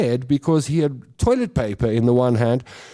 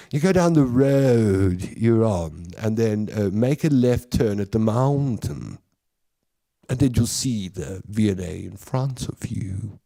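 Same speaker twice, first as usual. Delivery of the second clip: easy, unhurried directions; relaxed Cape Townian; 3 semitones lower than usual. Retold or imitated. Comic still playing a relaxed Cape Townian giving directions. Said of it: "Can you tell I'm from Cape Town?".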